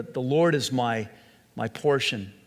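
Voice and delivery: emphasis on Lord, then a small pause; stress on Lord. Shown as a demonstration. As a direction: Lord leaned on, the rest trailing down. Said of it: "the emphasis on the word Lord".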